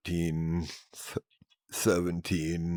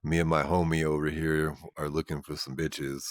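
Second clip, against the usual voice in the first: deep voice; 3 semitones lower, 4 dB quieter than usual. Shown as a demonstration. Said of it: "I'll be like".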